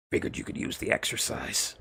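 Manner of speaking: low, rough, unvoiced soldier rasp; gruff Snake voice. Old soldier teasing the winded scientist, low rasp. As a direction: growl it like a weary old soldier.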